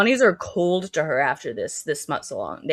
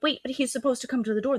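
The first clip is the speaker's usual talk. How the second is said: higher-pitched, quick mock protest; puzzled bunny quote, pitched up; mock bewildered bunny; 8 semitones higher, faster than usual. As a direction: lightly imitate a confused girl. Voicing the bunnies' puzzled protest.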